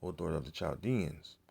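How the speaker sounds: measured, solemn Bible reading; King James passage read with weight; scripture reading. Acted. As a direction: read the prophecy out like a preacher at the pulpit. Reads Isaiah aloud.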